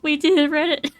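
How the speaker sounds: loud triumphant shout; giddy relief. Real, not acted. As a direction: cheer it to the audience. Announcing success to viewers.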